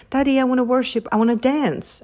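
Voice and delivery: a hint of an excited little girl asking; little daughter voice. Daughter asking daddy to dance, lightly voiced excited toddler. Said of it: "she's like".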